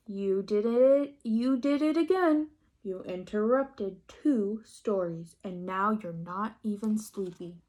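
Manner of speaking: gentle exasperated scolding; mock scolding papa.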